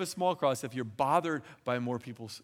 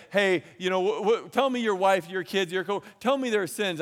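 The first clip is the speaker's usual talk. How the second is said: louder, raised pushy demand; demanding quote; 4 semitones higher, 5 dB louder than usual. Retold or imitated. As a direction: push them to name others' sins. Someone demanding others' sins.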